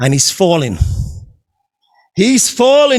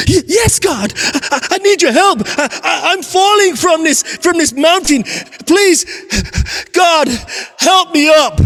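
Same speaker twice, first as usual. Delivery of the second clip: higher, stammering panicked begging; frantic pleading; 4 semitones higher than usual. Acted. Oba dangling from a branch, begging God in a higher panicked voice. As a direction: beg for your life, stumbling over words.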